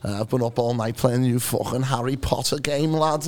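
lightly imitated Scouse cabbie; Scouse accent. Passenger retelling the taxi driver's chat, light Scouse accent. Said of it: "Is that a bad Scouse accent".

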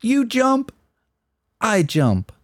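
lightly voiced movie dialogue, starting high; acted film quote. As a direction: play both halves of the film line. Acting out a film quote for quiz.

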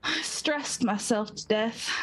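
put-on slow, lightly Southern accent; a hint of Southern-girl accent. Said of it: "she's a good Southern girl".

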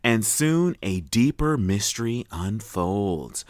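slow, measured announcer read; synopsis read. Real, not acted. Host reads a show's premise to co-host, measured. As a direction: read it out slowly, pacing each phrase.

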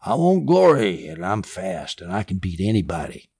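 lightly voiced brash young man; bold young warrior. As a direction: boast like a cocky young fighter. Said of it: "doesn't this sound like a young warrior, young man, young and dumb?".

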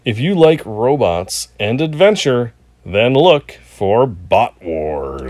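slow dramatic trailer narrator; movie trailer voice. Acted. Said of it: "That was a good advertisement".

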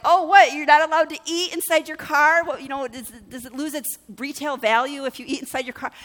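loud, high-pitched sarcastic taunt, easing off; hammed-up incredulous jab; mocking zinger. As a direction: hurl an imagined comeback in mock disbelief. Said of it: "I had a bunch of zingers".

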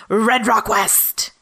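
hammed-up film title announcement; showy title delivery. Shown as a demonstration. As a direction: give the title a dramatic flourish. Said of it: "you have to say it".

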